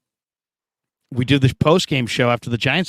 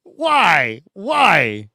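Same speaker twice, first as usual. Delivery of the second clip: high, fed-up groan at bad luck; a man finding a stranger lying on his car; exasperated; 6 semitones higher, slower than usual. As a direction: sigh it out like the night is ruined. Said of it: "I'm just like".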